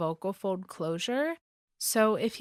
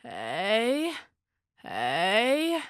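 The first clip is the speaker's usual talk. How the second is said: hey rising out of vocal fry; creaky vocal fry warmup. Shown as a demonstration. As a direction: start in a creak, slide up. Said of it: "Try that with me".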